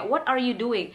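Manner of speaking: 'What are you doing' with every word sounded; unreduced 'What are you doing'; clear full form. Shown as a demonstration. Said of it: "Jadi lebih jelas gitu ya".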